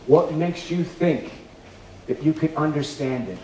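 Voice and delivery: tender firm God. Acted. God's gentle but firm reply.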